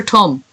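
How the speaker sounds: "thumb" starting with a hard t; accented "thumb". Real, not acted. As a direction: say "thumb" as "tum". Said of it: "That's my awful accent".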